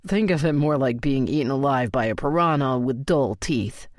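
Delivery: low-key male voice, sheepish and amused; Colton, lightly voiced. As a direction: narrator slips lightly into Colton telling the story.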